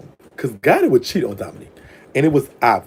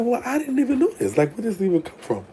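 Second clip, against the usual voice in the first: mock surprise; 11 semitones higher, 5 dB quieter than usual. Retold surprised reply.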